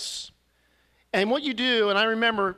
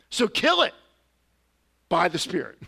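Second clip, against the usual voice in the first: forceful exhortation; 3 dB louder than usual. Real, not acted. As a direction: drive the command home hard. Preacher urging fight against sin.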